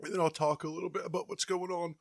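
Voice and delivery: fast words round a bite; mouth full. Real, not acted. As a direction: talk while chewing. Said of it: "finish chewing this".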